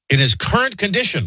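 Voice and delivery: congested, blocked-nose voice; stuffy nose. Real, not acted. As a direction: sound all stuffed up. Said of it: "I'm so stuffy".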